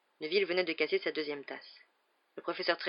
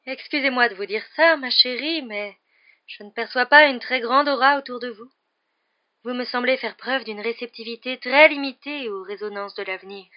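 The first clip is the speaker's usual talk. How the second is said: raised, emphatic, hostile put-down; higher and louder, theatrically offended fortune-teller; affronted seer; 6 semitones higher, 10 dB louder than usual. Acted.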